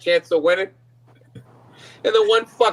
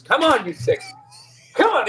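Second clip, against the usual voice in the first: mock racetrack urging; 5 semitones higher than usual. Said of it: "he's walking around going".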